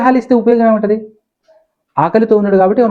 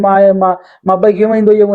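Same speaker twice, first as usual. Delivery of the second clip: a stuttering, half-acted mother's wail; lightly voiced mother crying out; imitated wailing mother. Mother tells the neighbours, mock wailing. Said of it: "ఆవిడ ఏడుస్తూ బొబ్బలు పెడుతుంది".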